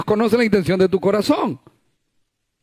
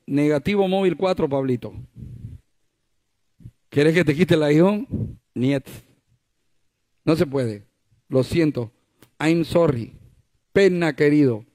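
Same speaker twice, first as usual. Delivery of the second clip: playful voice of God; 5 semitones lower than usual. Acted. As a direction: speak as God gently turning Paul down, low and hushed. Preacher voices God refusing Paul.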